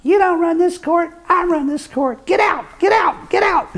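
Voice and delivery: high, loud mock shout of an angry judge; screaming judge. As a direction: throw the witness out of court at full volume. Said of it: "started screaming at him".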